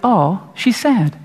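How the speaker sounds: lightly acted pitying aside; slow, drawn-out sympathy; sympathetic. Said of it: "maybe they were, like, really kinda like".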